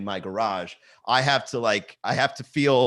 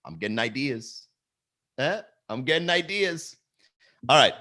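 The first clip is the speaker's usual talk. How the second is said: Robert De Niro. Acted. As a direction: say it under the breath like a scheming movie star. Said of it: "this is Robert De Niro as an entrepreneur".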